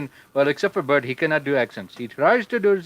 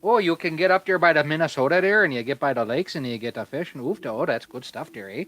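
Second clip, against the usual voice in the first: put-on Minnesota accent. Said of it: "speaking in a different accent".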